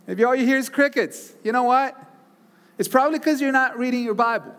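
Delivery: high, loud exhortation; loud preaching. Real, not acted. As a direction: call it out to the crowd. Punchline called out to congregation.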